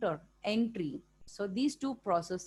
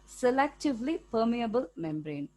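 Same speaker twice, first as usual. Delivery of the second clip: "selectively permeable" hit firmly, word by word; emphatic stress on "selectively permeable membrane"; stressed key term; 2 semitones higher than usual. Real, not acted. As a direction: lean on "selectively permeable" with extra punch. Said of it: "I'm stressing the word".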